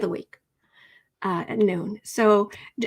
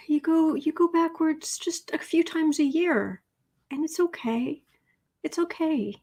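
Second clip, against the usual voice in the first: put-on higher, soothing voice as if calming a sulky child; coaxing Mercury; 3 semitones higher than usual. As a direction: gently talk the planet down.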